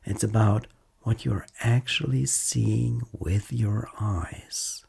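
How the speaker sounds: calm, unhurried mindfulness guide with long pauses; guided meditation. Acted. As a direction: gently lead a listener through noticing body and senses.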